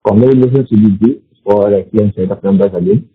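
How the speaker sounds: muffled phone line. Real, not acted. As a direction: voice muffled as if covered. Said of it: "you sound muffled on the line".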